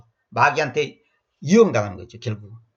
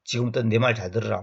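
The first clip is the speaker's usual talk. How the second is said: calm explaining; 5 semitones lower than usual. Pretend. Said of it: "뭐 이런 식으로 설명하면".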